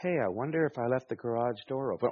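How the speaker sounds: a hint of an idly musing inner voice; mock daydreaming aside; wandering mind. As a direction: lightly voice your distracted thoughts. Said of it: "your mind starts to go".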